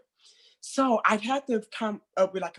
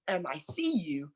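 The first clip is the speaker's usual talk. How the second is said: soft whisper; 7 dB quieter than usual. Retold or imitated. Affirming a struggling kid.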